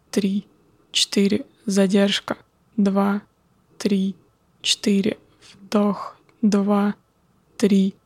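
calm, slow counting of breaths. Acted. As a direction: count the breaths slowly and calmly. Guides a breathing exercise.

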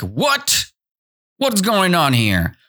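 high, disbelieving outburst; shocked cry. Acted. Ants confront the begging grasshopper, shocked high cry. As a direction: start very high, then demand an explanation. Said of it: "The ants cried like".

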